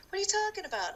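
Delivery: high-pitched baffled comeback; retold bafflement. Accused friend replies, baffled.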